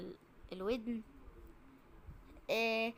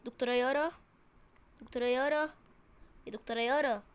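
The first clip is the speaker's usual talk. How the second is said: calling out; 7 dB louder than usual. Acted. Nurse wakes sleeping doctor.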